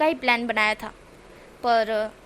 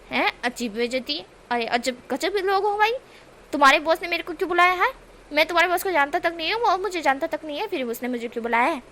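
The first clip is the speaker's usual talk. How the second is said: raised, lightly voiced mock outrage; indignant Wing; 4 semitones higher than usual. Wing to the guards, lightly voiced mock indignation. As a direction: act puzzled and offended, a bit higher. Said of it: "इस तरह से विंग बोलता है".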